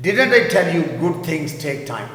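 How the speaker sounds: teacher models; slow model sentence. Shown as a demonstration. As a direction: read it slowly. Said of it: "میں نے کہا تھا نا اچھی چیزیں وقت لیتی ہیں".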